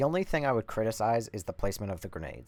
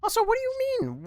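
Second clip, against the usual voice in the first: indignant squeak; 5 dB louder, faster than usual. Real, not acted. Offended reply to Merchant.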